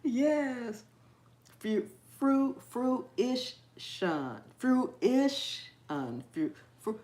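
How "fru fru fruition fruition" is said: "fruition" broken into fru, ish, un; struggling pronunciation. Real, not acted. Host fighting the part that gets her, halting syllables. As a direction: restart on "Fru-", then sound out "fruition" in pieces. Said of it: "it's the fruit part that gets me".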